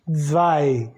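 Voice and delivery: zwei said "tsvai", falling low; German pronunciation. Shown as a demonstration. Teacher sounding out German two, German pronunciation. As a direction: say zwei with TS, then V, then "ai". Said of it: "O W vai ter som de V".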